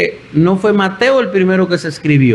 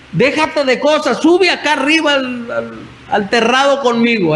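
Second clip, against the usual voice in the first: higher-pitched mock scolding; imitated nagging wife; 4 semitones higher than usual. Critical wife calling David up to the terrace, mock nagging. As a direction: lightly act out a wife ordering him upstairs.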